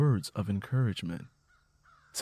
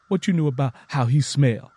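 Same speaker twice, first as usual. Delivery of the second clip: defensive; 2 semitones higher, 5 dB louder than usual. Acted. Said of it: "Tangy got defensive".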